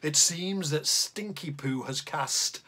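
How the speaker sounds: lively, bouncy storytelling rhythm; reading a poem to children. Acted. Teacher reads the tummy troll poem to the class, playfully. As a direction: read a silly bedtime poem aloud to the kids.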